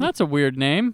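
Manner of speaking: usual speaking voice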